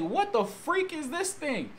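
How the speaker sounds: high, slow, alarmed disbelief; stretched high-pitched fright; mock alarm. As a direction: act out being scared to death. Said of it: "I was scared to death".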